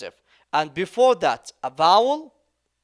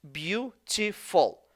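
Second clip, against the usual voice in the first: slow syllable demo; 2 semitones higher, 3 dB quieter, slower than usual. Shown as a demonstration.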